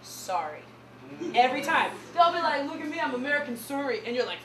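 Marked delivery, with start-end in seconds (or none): 2.6-4.0 mock Canadian accent. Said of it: "anybody know that word?".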